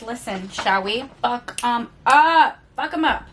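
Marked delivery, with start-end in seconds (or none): 1.2-2.6 slow, louder, savoured threat; slow growl. Pretend. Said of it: "Fuck 'em up". 2.8-3.2 higher, snappier take with the stress on 'em; quick chirpy cheer. Pretend. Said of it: "Fuck 'em up".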